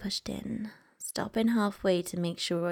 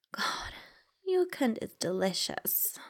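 moaning; 4 semitones higher than usual. Acted. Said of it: "I moaned".

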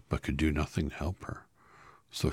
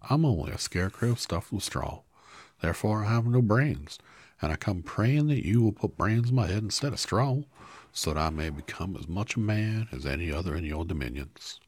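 higher, louder earnest straw man; brave Scarecrow; 5 semitones higher, 6 dB louder than usual. Acted. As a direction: speak up bravely. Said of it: "he answered bravely".

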